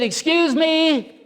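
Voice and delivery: high, drawn-out call; stretched, high-pitched hail. Retold or imitated. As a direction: call out slowly on a high pitch to get attention. Calling out to woman in car.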